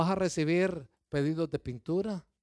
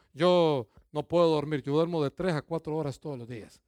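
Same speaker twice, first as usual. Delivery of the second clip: mock proud young man; 3 semitones lower than usual. Pastor mocking a proud young man, mild boastful voice. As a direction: play up the boast with mild pride. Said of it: "así bien orgulloso diciendo".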